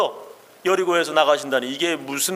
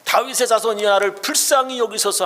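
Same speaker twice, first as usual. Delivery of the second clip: crying out; 4 semitones higher than usual. Acted. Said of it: "더욱 심히 소리 질러 가로되".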